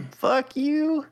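hammed-up Texas boy twang; Texan accent. Podcast host plays up his Texas roots in mock Texan drawl. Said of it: "the voice makes it sound like I am".

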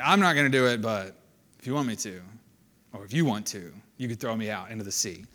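low, soft, can't-be-bothered mumbled offer; apathetic. Acted. Jonah to the sailors about the sea, apathetic. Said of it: "it just seems like he's apathetic".

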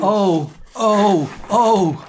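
high, loud theatrical "oh"s; hammed-up screamed ohs; screamed moans. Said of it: "I screamed".

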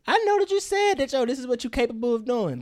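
mocking address to the woman; mock exasperated. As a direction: talk down to her.

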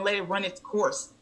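soft retold doctor's advice; placating doctor. Doctor telling patient to just sleep, placating. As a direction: gently dismiss the complaint.

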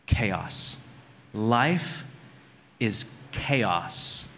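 low, halting, deadpan defeat; mock weary despair. Frazzled dad to his wife amid crying kids, mock despair. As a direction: drop the pitch and pronounce it like doom.

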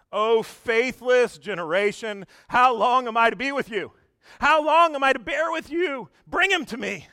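a preacher voicing Jesus's exasperation; exasperated rebuke. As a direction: let the frustration build on each how long. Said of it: "and he's exasperated".

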